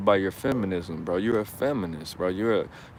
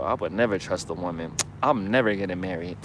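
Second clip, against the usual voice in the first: mock bitter man; 4 semitones lower than usual. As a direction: lower mocking voice of a jilted man. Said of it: "you're speaking from your nose".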